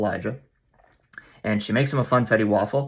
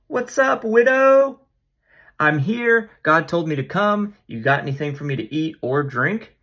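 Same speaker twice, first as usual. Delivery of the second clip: much higher, bouncy greeting to the widow; cheery high Elijah; 7 semitones higher than usual. Retold or imitated. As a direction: play Elijah as a chipper guest.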